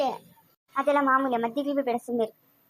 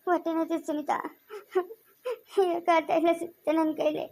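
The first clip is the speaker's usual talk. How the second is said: weak crying. Acted. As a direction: whimper it through the pain. Woman in labour pain.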